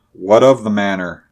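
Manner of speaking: ordinary delivery, nothing marked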